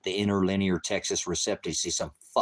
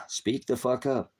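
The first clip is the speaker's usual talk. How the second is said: slow angry demand; 5 semitones higher, slower than usual. Real, not acted. Repeats demand at commenter.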